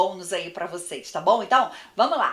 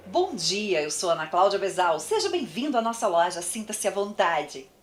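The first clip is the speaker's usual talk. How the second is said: brighter, engaged shop welcome; friendly welcome. Shown as a demonstration. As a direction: greet the customer with real interest. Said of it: "É outra coisa".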